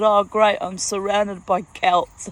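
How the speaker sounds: loud, drawn-out mock cheer; retold delight. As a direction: exclaim it like a small victory whoop. Retold cheer, fist punched in air.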